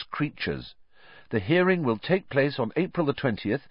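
put-on boy reading an official letter aloud to his friend; reading a formal letter. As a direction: read the letter out like a notice.

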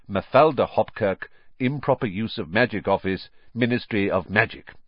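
brisk formal letter reading; officious, lilting recital of regulations; official letter. A narrator's reading. Ministry writing to warn Harry, formal and officious.

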